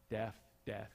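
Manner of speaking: Death, death said twice in a Southern accent, both the same. Shown as a demonstration. Pastor showing the congregation his Southern accent makes both words the same. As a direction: show that Death and death sound alike in your Southern accent. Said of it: "I say them the same way".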